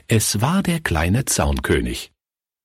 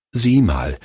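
ordinary delivery

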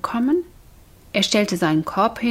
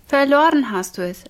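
higher, mildly angry scolding; angry cry; 6 semitones higher, 3 dB louder than usual. A narrator's reading. Mother accuses son over lost money, angry cry. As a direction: scold with restrained anger. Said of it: "schrie die Mutti zornig".

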